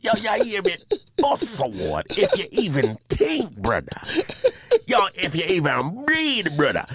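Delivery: mock a Jamaican brandishing threats; menacing Jamaican accent. Imitating a man with a cutlass, menacing Jamaican accent. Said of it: "the mannerisms be crazy 'cause you think".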